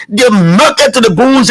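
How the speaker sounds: lightly voiced Isaac Jackson, slowed; a hint of Isaac Jackson, drawn out slowly. Radio host redoes his line for listeners, a light slow Isaac Jackson impression. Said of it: "in my Isaac Jackson voice".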